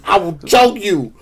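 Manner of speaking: slow, high mock shout; hammed-up threat, stretching each word out; Jay Washington. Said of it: "your impeccable impression of Jay Washington".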